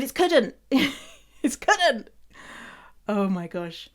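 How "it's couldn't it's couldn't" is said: It's couldn't, high and insistent; playful high correction; emphatic correction. Real, not acted. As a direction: stamp the correction higher.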